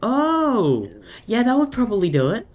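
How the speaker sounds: high, loud, fast amused outburst; amused exclamation. Real, not acted. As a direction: burst out in amused disbelief. Amused reaction to running out of hydrogen.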